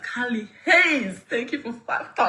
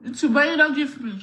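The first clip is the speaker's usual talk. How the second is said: higher, louder, fast mock complaint; mock demand; 5 semitones higher, 4 dB louder, faster than usual. Real, not acted. Streamer teasing YouTube viewers for no gifts, mock demanding. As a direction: tease them for not gifting.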